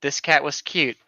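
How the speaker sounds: deadpan once-upon-a-time storytelling; mock fairy-tale telling. Making up a cat story for a friend, deadpan fairy-tale telling. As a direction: spin a silly tale as a straight-faced storyteller.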